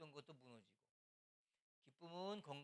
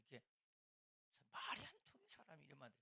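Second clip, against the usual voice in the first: ordinary delivery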